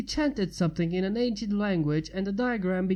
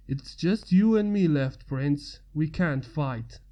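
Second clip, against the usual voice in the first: put-on weary old mage; 4 semitones lower than usual. A narrator's reading. Rise voiced in story.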